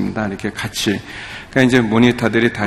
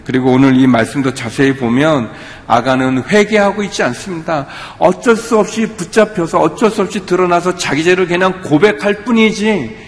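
high-pitched, insistent sermon delivery; preacher pressing a point, pitch raised; impassioned preaching; 5 semitones higher than usual. Real, not acted. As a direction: drive the verdict home from the pulpit.

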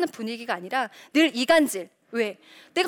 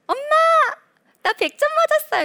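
put-on high, loud kid calling mom; acted schoolboy proudly announcing good news; excited child; 7 dB louder than usual. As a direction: burst out like a thrilled child. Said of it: "재밌는 예가 있어요. 철수가".

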